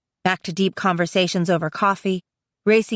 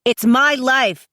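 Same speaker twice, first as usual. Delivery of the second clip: emphatic, slow, higher-pitched retort; mild roar; 6 semitones higher, 4 dB louder, slower than usual. A narrator's reading. Brother defying his sister, restrained roar. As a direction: push each word out slowly, indignant. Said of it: "he roars at me".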